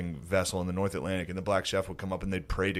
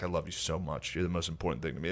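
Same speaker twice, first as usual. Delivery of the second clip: mock loving husband; 6 semitones lower, 7 dB quieter than usual. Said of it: "him being like".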